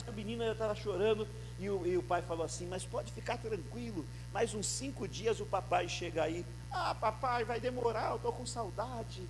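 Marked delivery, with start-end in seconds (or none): 2.7-9.2 quiet phone dialogue. Retold or imitated. Father and son phone talk.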